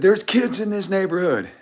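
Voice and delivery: slow, high, loud mock holler; imitated yelling. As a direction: mimic an outraged neighbor shouting it slowly. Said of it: "he's yelling at me".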